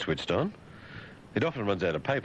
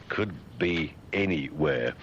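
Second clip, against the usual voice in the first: incredulous repeat; 3 semitones lower, slower than usual. Acted. Slow incredulous repeat of headline.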